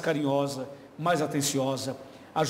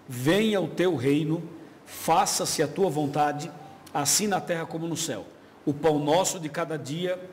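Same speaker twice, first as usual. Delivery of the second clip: slow, measured reading of the Lord's Prayer; solemn Bible recitation; scripture reading; slower than usual. Acted. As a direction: read the prayer reverently, word by word.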